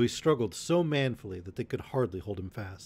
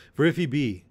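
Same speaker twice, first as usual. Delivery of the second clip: a louder, higher burst of defiance; defiant cry; 4 semitones higher, 6 dB louder than usual. A narrator's reading. Robin vowing revenge to the messengers, loud defiant cry. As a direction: fling it out like a vow of vengeance. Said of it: "cried Robin".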